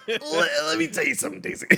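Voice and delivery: very high, loud bossy voice; a high, squeaky figure lecturing Daisy; squeaky character voice. Acted. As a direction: announce it in a squeaky prim voice.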